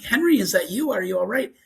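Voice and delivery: put-on scared parent calling to a child; uneasy "are you there?" retelling; retold scared questioning. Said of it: "by this time I'm scared".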